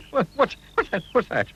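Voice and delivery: high startled panicky question; startled by a snapping twig; shriek. A narrator's reading. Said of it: "he shrieked".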